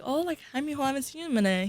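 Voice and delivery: lightly voiced, high surprised hello; mock grandma greeting. Grandma greeting Diego at the door, high friendly hello.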